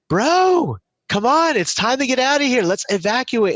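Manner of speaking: mock rescuer yelling over the noise; Coast Guard on a megaphone. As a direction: shout it through a megaphone from above. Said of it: "on a megaphone".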